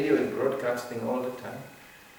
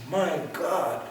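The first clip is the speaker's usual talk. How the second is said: laughing quote; 6 semitones higher than usual. Retold or imitated. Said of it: "she said".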